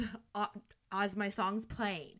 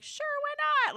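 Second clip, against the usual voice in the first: high, loud, breezy eagerness; fearless; 7 dB louder, faster than usual. Retold or imitated. Retelling saying yes to the anthem solo, fearless. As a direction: jump at it without a second thought. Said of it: "Like, I was fearless".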